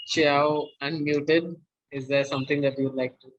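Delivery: robotic, broken-up audio; choppy low-quality connection; low sample rate. Real, not acted. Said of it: "Your voice is quite robotic".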